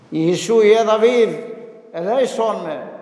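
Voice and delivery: mild calling out to Jesus; half-voiced plea of the blind beggar; retold cry for mercy. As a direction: priest voicing the blind man's first call. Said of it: "έβαλε τις φωνές".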